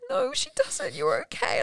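high-pitched mock soothing; imitated reassuring midwife. Midwife to panicking new mother, imitated high-pitched reassurance.

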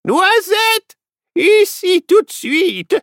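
high, loud command to a pet; calling sharply. Acted. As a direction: order the squirrel back. Lady calls her squirrel. (appel sévère)

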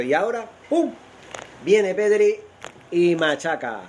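high, thrilled goal commentary; excited goal commentary. Real, not acted. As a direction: ride the joy of the goal.

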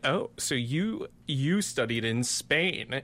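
slow, drawn-out snooty imitation; imitating people with airs, slowly; mock putting on airs. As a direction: stretch it out as if lightly impressed and superior. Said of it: "they were talking about airs".

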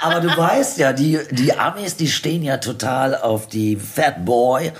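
high, laughing tease. Real, not acted. Guest laughing as she teases the host about American bikers. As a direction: bubble over with laughter, slowing at the end.

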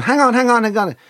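high, loud, urgent plea; retold panic, pitched right up; chaotic pleading. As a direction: talk someone down in a fluster. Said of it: "diffuse the situation in chaos".

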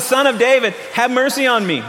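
retold shout. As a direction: call it out, mildly acted. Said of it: "But he shouted".

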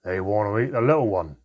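mild hiss of fear and anger. A narrator's reading. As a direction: hiss it back in alarm. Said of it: "Handan hissed back".

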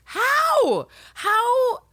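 high, loud repeated how; shrill outraged question; incredulous cry. Real, not acted. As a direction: demand it in disbelief. Indignant rant at Mariana.

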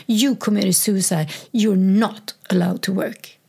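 imitating a doctor snapping at her; a hint of a furious doctor's rant; retold angry doctor. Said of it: "she just snapped".

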